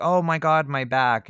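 high, loud hammed-up suffering; melodramatic wail. Wife melodramatically lying on a fork, hammed-up cry. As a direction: overplay the pain for the room. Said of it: "she was being melodramatic and she's like".

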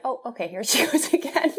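fond teasing with a laugh breaking in; imitating loving laughter. Wife imitates husband teasing her crying, lovingly laughing. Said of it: "laughs at me in a loving way".

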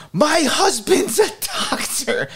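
high, drawn-out mock announcement; eager volunteering. Mother volunteering her husband to the gym, high eager mimicry. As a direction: pipe up proudly, stretching it out high.

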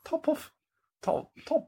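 put-on high, breathy stab at an Irish accent; faltering Irish accent attempt. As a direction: try an Irish lilt, badly. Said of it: "Can you do it in an Irish accent?".

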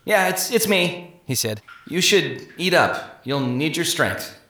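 slow, halting, hushed voice; Inanity nervously speaks to the prisoners through the slat, slow and halting; nervous hesitant. Acted. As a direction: stammer it out uneasily.

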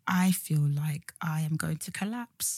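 breathless, whispered collapse; faint whisper. Retold or imitated. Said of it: "And I was like".

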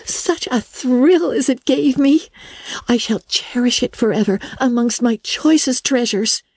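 put-on high, breathless girlish thrill, lingering over the address; excited young Anne. Anne showing Marilla her invitation letter, high and thrilled. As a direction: savour every word like a treasure.

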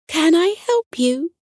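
high-pitched, lilting offer of help; helpful nightingale. A narrator's reading. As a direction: pitch it high like a little songbird. Nightingale answers the caller.

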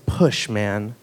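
a low, hushed push order; terse order. Retold or imitated. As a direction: bark it low and short like a farmhand. Willie gives order during birth.

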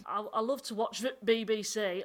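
vowels dropped, broad northern; a northern lad saying I, I love to watch the B B C; broad northern accent. Pretend. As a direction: ham up a thick northern accent.

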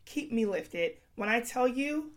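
hoarse, strained voice; talking through a sick, worn voice; losing her voice. Real, not acted. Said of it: "I have no voice".

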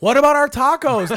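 high, loud indignant plea; retold incredulous protest; mock protest. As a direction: act out a whiny-pitched objection about food. Acted protest over tacos.

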